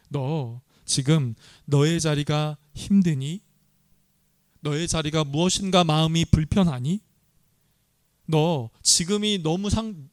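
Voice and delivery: a caring father checking on a tired son; warm, gentle God. Retold or imitated. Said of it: "이렇게 따뜻하게 말씀을 하고".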